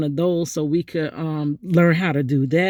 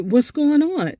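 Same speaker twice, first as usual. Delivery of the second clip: retold alarm; 9 semitones higher than usual. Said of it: "I'm like".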